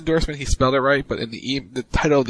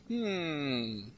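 mocking hmm; 14 dB quieter than usual. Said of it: "Mocking A J Styles' picture".

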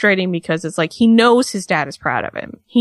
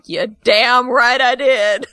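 defiant wife; 4 semitones higher, slower than usual. Retold or imitated. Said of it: "Maurice is sitting there like".

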